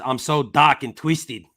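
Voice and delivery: slow, drawn-out attempt at an Australian accent. Host reading out a viewer's comment, Australian accent. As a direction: read it slowly in a put-on Australian accent. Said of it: "trying to say that in an Australian accent".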